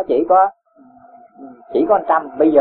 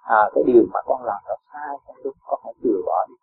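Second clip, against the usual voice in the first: put-on soft, kindly correcting a child, much softer; gentle advice; 3 semitones lower, 4 dB quieter than usual. Shown as a demonstration. Teacher shows a parent how to advise a child gently. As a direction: coax the child gently to drop the fault. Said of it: "Con nói nhẹ nhàng".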